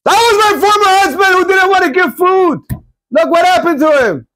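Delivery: high, pained voice of the tearful wife; high voice of disbelief at her former husband's fate; wife's lament. Retold or imitated. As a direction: tell it like a stunned ex-wife. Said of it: "She's like".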